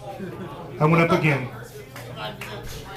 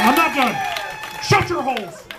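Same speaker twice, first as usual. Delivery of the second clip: high, raised shout over the crowd; shouting down applause; 7 semitones higher than usual. Real, not acted. Comic telling the crowd he isn't done, shouting them down. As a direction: cut off the clapping with a shout.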